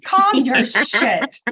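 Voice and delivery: slow exasperated. Retold or imitated. Mother repeating her retort to the daughter, very slow and drawn out. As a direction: stretch every word with fed-up scorn. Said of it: "I was like".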